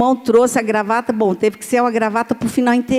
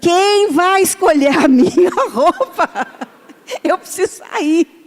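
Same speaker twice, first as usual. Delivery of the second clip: put-on high, loud shout; 6 semitones higher than usual. Retelling how Fernando reacted to everyone changing his clothes: imitating Fernando shouting. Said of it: "o Fernando gritando".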